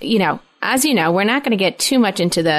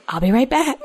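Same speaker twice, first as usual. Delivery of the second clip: breezy call-out; 3 semitones higher than usual. Retold or imitated. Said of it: "and then I say".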